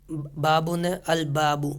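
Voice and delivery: अल बाबू with a clear लाम sound; lam pronounced. Shown as a demonstration. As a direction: say the ल in अल बाबू fully, al-baabu. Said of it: "लाम पढ़ा जाएगा". (अल बाबू में लाम साफ़ बोलें)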